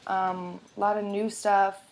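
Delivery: ordinary talk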